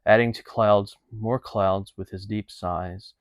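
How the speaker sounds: measured verse read aloud; Shakespeare reading. Acted. Podcast host reads listeners a favorite Romeo and Juliet passage, measured verse reading. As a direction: read the verse phrase by phrase, letting line ends fall away.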